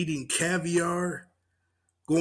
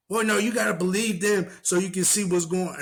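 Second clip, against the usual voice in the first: higher mock-prissy insistence; mocking her again; 5 semitones higher than usual. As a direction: insist like a know-it-all. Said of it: "she answers".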